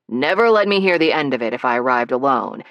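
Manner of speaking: fast, breathless rush; words tumbling out. Acted. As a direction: hurry through it nervously. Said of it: "His words were tumbling over one another".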